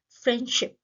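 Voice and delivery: "फ्रेंडशिप" with the d dropped; "फ्रेंडशिप" going straight from n to sh; silent d. Shown as a demonstration. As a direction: leave out the d in "फ्रेंडशिप". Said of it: "जिसमें डी silent".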